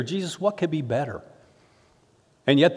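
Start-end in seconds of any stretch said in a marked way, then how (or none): 0.0-1.2 softer, bewildered, a hint of fear; absolute confusion. Shown as a demonstration. Pastor showing how a disciple would ask Jesus, softly confused. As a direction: ask it lost and unsure, quietly. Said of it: "I would just say it in absolute confusion".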